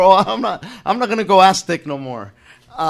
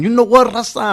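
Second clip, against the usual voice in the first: higher, hammed-up class opener; Chicano studies teacher; 7 semitones higher than usual. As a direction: open class as a put-on activist teacher. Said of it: "I would have started my class by saying".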